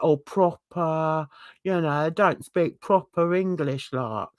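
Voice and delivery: lazy Londoner speech, words half pronounced; lazy London twang. Acted. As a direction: slur it lightly like a lazy Londoner. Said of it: "really sort of lazy way of talking".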